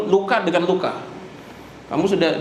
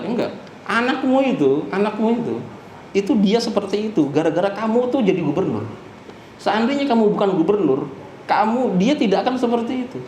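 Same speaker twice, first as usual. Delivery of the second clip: higher-pitched, insistent mock scolding; retold reproach, pitched up; acted rebuke; 4 semitones higher than usual. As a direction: voice a ruler laying blame on a father. Umar rebukes the governor father.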